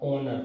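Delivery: ऑनर with no h at the start; silent h. Shown as a demonstration. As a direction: open ऑनर cleanly on the vowel. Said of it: "वो silent है".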